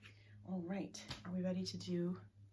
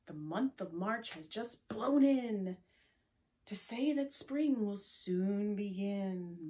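slow, louder poem reading; full-voiced recitation; 6 dB louder, slower than usual. Shown as a demonstration. Teacher repeating the March poem with the class, full voice. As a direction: say it out boldly and slowly. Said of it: "one more time".

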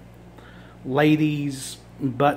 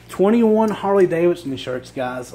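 excited; 3 semitones higher, 3 dB louder than usual. Real, not acted. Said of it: "I was so ecstatic".

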